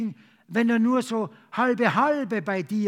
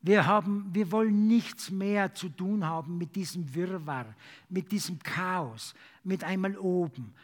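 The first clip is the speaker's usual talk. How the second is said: earnest praying voice; fervent prayer. Acted. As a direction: pray aloud for the church. Congregational prayer.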